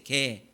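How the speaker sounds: "개" said slowly, one low drawn-out syllable; sounding out words. Shown as a demonstration. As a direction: spell out "개" carefully, pitch dropping. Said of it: "한번 따라해보세요".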